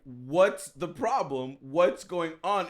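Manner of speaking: slow, measured questioning, imitating girlfriend; reasonable questioning. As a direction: imitate someone reasonably asking, word by word. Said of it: "she's being real reasonable".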